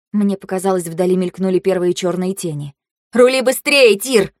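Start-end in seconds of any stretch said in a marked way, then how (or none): 3.1-4.3 high, loud, urgent cry; squealed order. A narrator's reading. Фэй screaming at Тир to steer faster, panicked squeal. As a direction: cry out for more speed. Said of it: "Фэй завизжала".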